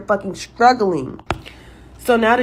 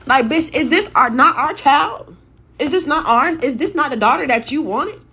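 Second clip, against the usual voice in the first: outraged disbelief; 4 semitones higher than usual. Real, not acted. Caller outraged at her ex.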